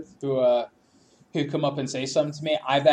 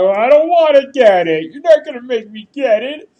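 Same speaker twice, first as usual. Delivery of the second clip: louder, higher, firm refusal; loud defiant retort; 8 semitones higher, 10 dB louder than usual. Retold or imitated. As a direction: push back hard, no more patience. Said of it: "I was like, I tried".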